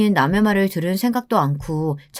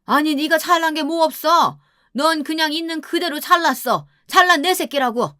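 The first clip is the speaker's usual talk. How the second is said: high-pitched mother protesting her son's worth; mother-in-law boasting indignantly about her boy; doting, indignant mother; 6 semitones higher than usual. Acted. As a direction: insist hotly, pitched well up. Mother insisting her son is superior.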